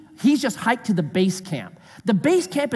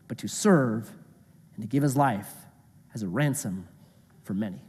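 lower, measured Bible reading; scripture reading; 4 semitones lower than usual. Acted. Jesus teaching the disciples about serving, measured scripture reading.

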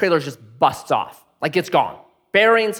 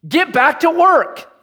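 high, slow, loud command; pushy order to get working; bossy order; 12 semitones higher, 5 dB louder, slower than usual. Retold or imitated. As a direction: bark it like a bossy stranger. Bossy man ordering strangers.

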